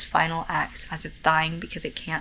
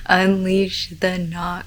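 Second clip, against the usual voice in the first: slow pleading through laughter; half-laughing wish, drawn out; giggly plea; much slower than usual. Retold or imitated. Begging the book to kill Micah, laughing plea. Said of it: "and I'm like".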